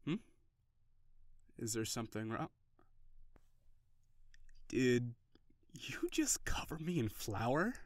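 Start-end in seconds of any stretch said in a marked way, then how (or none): 4.7-7.7 slow, breathless whisper of disbelief; hushed mock shock at a flour attack; stunned whisper. Partner throws flour at him.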